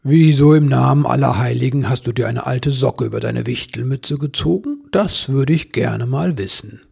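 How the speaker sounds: emphatic, mildly incredulous question; questioning Santa. Acted. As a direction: ask with amused bafflement. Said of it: "Weihnachtsmann ... fragte".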